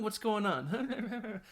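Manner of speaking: a playful laughing tease; laughing mock question. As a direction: drag it out while cracking up.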